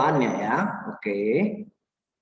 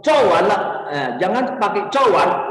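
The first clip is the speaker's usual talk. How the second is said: "cowan" curt, with no softener; short, emphatic "cowan"; emotional bare answer. Shown as a demonstration. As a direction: answer "cowan" abruptly, a touch of feeling. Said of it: "Itu ada nada-nada emosinya".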